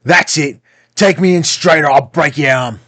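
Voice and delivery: high, loud cruel threat; menacing threat. A narrator's reading. Blind beggar threatening the boy, loud and cruel. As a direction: threaten to break his arm coldly.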